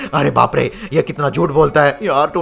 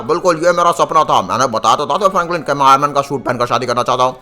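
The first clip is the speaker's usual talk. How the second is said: eager groom in a heavy hero voice; heavy-voiced Iron Man. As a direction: put on a heavy, armoured voice.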